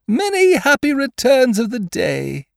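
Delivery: high, loud, cheery call. A narrator's reading. Pooh shouting birthday wishes across the river, called out. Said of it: "called out Pooh".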